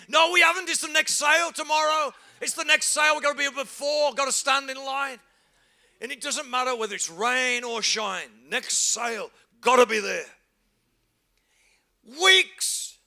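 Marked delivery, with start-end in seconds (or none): 0.1-5.2 higher, louder, rushed sale fever; mock urgency. Preacher mimicking Boxing Day shoppers, mock urgent. 12.2-13.0 exclaim. Real, not acted. Exclaiming over waiting.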